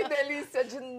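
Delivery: high, loud, elated cry; delighted exclamation. Real, not acted. Guest thrilled to be back with the host, elated.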